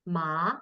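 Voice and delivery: "ma" rising as Mandarin second tone. Shown as a demonstration. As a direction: let "ma" climb upward. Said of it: "is second tone".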